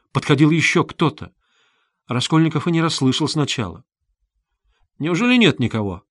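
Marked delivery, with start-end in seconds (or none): none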